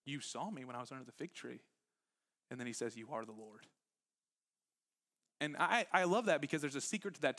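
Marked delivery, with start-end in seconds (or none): 0.0-3.7 awed hush. Retold or imitated. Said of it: "Nathanael says".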